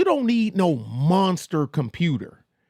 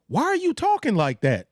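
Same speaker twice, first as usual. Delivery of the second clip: incredulous driver; 8 semitones higher than usual. Pretend. Driver questioning cop voice.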